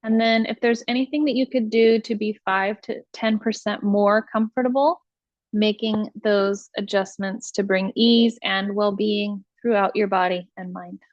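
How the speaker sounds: measured meditation voice, long pauses between instructions; guided meditation. Acted. Teacher leading listeners through iRest practice, guided meditation voice.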